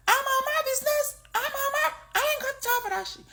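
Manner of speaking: very high mock Black American accent; Black American accent imitation. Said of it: "they have this accent".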